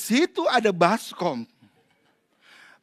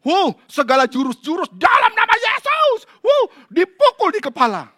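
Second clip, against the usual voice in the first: mocking amazement; 11 semitones higher, 11 dB louder than usual. Mocking over-the-top pastors.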